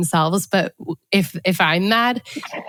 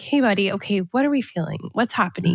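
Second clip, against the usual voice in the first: put-on gentle toddler voice. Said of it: "the voice that I use when I talk to them".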